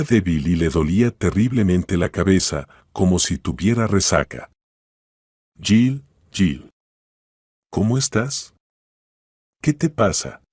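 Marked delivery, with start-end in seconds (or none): 5.6-10.4 lightly raised, anxious voice at a hospital bed; worried friend. Acted. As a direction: call out to her friend with a touch of alarm.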